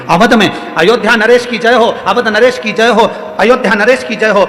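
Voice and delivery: lightly acted royal hail; hailing the king. Messenger hails the king. (राजा का जयकारा, ऊँचे सुर में)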